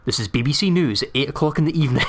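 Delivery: imitating a straight-faced news presenter; mock-formal news announcement; dead-serious newsreader. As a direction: read it like a serious news opener. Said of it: "going dead serious and going".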